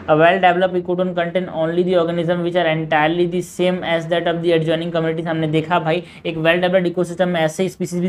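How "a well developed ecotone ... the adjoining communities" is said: slow, even question reading; measured textbook read-aloud. Acted. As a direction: read the exam question out slowly. Reading out a statement.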